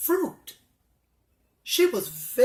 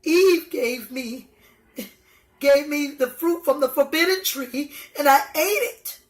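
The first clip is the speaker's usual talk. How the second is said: higher and louder, rushing at the end; nervous Adam; 5 semitones higher, 5 dB louder than usual. Acted. Adam blaming Eve before God, rising and rushed. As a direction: blurt out the excuse, speeding up. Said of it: "Adam said".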